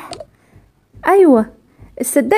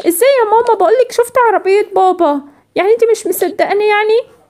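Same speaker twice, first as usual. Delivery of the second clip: a lightly voiced young girl, higher and insistent; indignant little girl; 5 semitones higher than usual. Daughter protests mother doesn't believe her, indignant. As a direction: push back because mom won't believe you.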